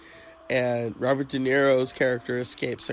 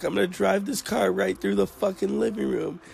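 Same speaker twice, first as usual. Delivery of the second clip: mock screaming threat; 7 semitones higher than usual. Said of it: "She's like".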